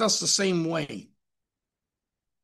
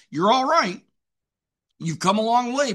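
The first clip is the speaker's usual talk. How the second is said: voice of God; 7 semitones higher than usual. Acted. God voiced speaking to Paul.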